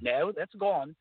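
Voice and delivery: high-pitched dismissive disavowal; mock denial. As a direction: play an official brushing it off. Imagined officials disowning the project.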